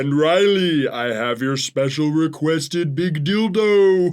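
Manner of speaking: Santa voiced as a spirit; ghost Santa voice. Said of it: "Santa always kinda sound like a ghost".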